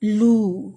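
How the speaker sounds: لو with a long rounded oo; لو not said with a short o; long oo demo. Shown as a demonstration. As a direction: round the lips on لو. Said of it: "اس کو لو نہیں کہہ سکتے".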